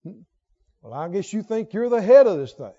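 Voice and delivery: mildly sarcastic dig. Acted. Needling someone who thinks he's in charge, sarcastic.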